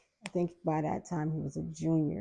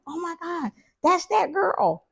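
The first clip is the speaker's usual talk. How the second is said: put-on much higher, drawn-out gossiping kid voice; mock shocked kids; 13 semitones higher, 5 dB louder, slower than usual. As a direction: mimic teens gasping at the girl they fought. Kids recognize her at cookout.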